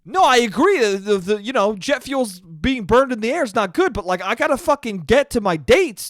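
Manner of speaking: lightly voiced, hammed-up petty science guy; jealous ranting Bill. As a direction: whine like a rival upstaged by a kid. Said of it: "Being like".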